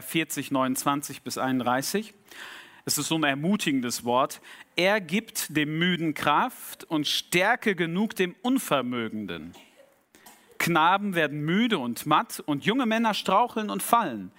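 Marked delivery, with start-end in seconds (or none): 4.8-14.3 scripture recitation. Real, not acted. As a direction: proclaim an encouraging Bible verse. Recites a Bible verse.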